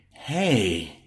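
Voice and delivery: sick but glad to hear him; raspy voice. Acted. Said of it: "Chelsea's voice was raspy".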